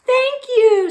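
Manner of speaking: high, loud squeaky flower voices; squeaky little flower voice; squeaking flowers. A narrator's reading. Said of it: "said the flowers".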